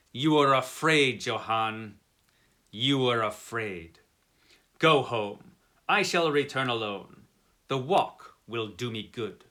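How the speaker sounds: defiant Englishman. Acted. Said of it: "All my English blood rose at this".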